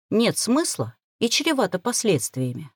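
usual speaking voice

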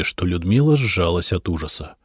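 usual speaking voice

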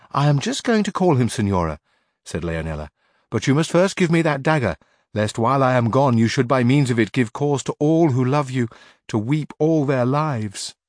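coaxing maid. Acted. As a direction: talk her mistress into handing over the dagger. Leonela asks for the dagger.

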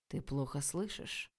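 slow, soft, low hiss; hissed threat. A narrator's reading. Oleg hissing at the stubborn girl. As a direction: hiss it through rising fury. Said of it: "прошипел Олег".

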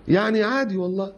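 high airy insistence; mock shrug. Preacher mocking a man insisting it's normal, high and airy. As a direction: toss it off as nothing.

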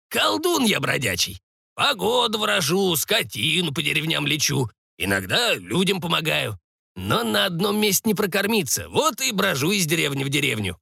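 lightly voiced creaky old sorcerer; a hint of a rustic old man; wandering old sorcerer. Sorcerer explaining his trade to the patient, lightly voiced.

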